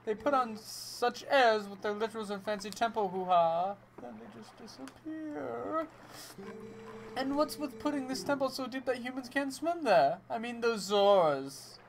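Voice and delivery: lightly voiced whiny clown; a hint of a sad clown. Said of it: "Sad clown voice".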